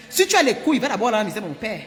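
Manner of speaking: daring the suitor, heated and loud; angry dare. Retold or imitated. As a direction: throw the dare in his face. She dares the man.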